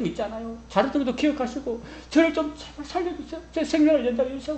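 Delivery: high, pleading plea for life; pleading tearfully. Acted. Hezekiah begging God not to let him die, tearful high plea. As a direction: beg God to let you live, near tears. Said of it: "하고 울고 불고 콧물".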